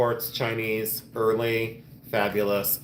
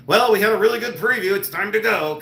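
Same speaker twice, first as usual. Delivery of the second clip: high, loud mock fury through tight teeth; forced-polite snap through clenched teeth; clenched-jaw anger; 9 semitones higher, 6 dB louder than usual. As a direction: mimic yourself seething with a locked jaw. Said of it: "tight teeth, like, clenched, like, lockjaw".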